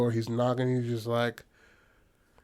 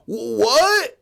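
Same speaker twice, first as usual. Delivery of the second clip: high, baffled "What?"; confused; 11 semitones higher, 5 dB louder than usual. Retold or imitated. Accused old man replies, baffled and confused. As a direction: sound totally lost.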